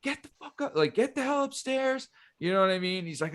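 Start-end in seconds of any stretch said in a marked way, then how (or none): 0.0-2.1 high, strained imitation of a furious dad; held-back mock yell, pitched way up. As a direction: imitate dad freaking out without real volume. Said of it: "freaking out, like, yelling".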